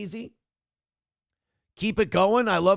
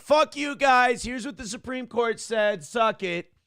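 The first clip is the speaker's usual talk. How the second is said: Bondi bully impression; 5 semitones higher than usual. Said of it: "Pam Bondi's like".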